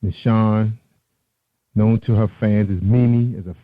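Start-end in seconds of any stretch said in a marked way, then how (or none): 0.0-0.8 Michonne said as mih-SHON, stress on the second syllable; pronounced Michonne. Shown as a demonstration. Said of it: "Mimi, pronounced".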